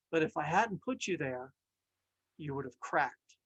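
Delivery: the potter calmly explaining the pain to the cup; lightly voiced wise potter. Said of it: "he said".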